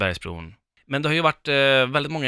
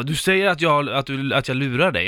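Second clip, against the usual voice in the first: raised, louder accusing driver; angry retort; 3 semitones higher, 4 dB louder than usual. Retold or imitated. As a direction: throw the accusation back at her. Taxichaufför som anklagar, gräl. (arg taxichaufför)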